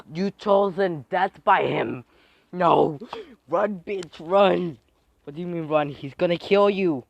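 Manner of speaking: loud, high urgent warnings; alarmed shouting. Acted. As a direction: yell at her to run for her life.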